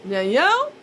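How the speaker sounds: woozy threat to take the wheel; stoned ultimatum. Retold or imitated. High self giving an ultimatum.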